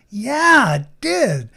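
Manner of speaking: a loud, high yeah that falls; the upset person finally heard; a touch of relieved confirmation; emphatic agreement. Retold or imitated.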